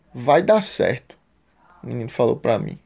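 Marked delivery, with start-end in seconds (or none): 0.1-1.2 reassuring. Retold or imitated. Retelling a little boy's comforting words.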